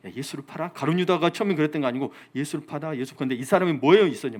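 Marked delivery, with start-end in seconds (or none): 0.1-0.7 much softer, sly murmur in the ear; imitated whispering temptation. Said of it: "계속 귀에 속삭이는 거예요". 2.3-3.1 softly murmured tempting words; imitated whispering temptation. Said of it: "계속 귀에 속삭이는 거예요".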